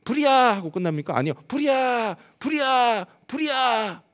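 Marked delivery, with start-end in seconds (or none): 0.0-0.5 high-pitched acted alarm call; fire alarm shout. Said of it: "목이 쉴 때까지 외칩니다". 1.5-4.0 high, drawn-out mock fire cries; repeated alarm shout. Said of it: "목이 쉴 때까지 외칩니다".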